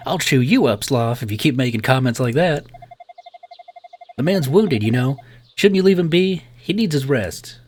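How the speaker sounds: lightly voiced cross nurse, lifted pitch; scolding nurse. Nurse tells men to leave patient alone, mildly scolding. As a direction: tell them off as a protective nurse.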